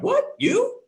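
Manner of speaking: disbelieving yelp, pitched far up; retold disbelief. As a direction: react like a friend just confessed. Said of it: "I'm like".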